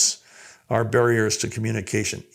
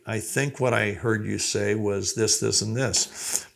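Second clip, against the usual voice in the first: validating reply; 2 semitones lower, 4 dB quieter than usual. Shown as a demonstration. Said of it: "you validate".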